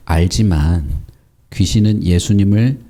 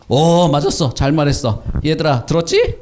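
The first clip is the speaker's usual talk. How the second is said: higher, gleeful show of agreement; mock-impressed, pitched up; pretend approval; 4 semitones higher than usual. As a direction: play someone proudly pointing it out to the children. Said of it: "우리 같으면".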